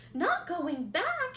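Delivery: a piglet stunned by the news; shocked cry. A narrator's reading. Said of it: "he cried".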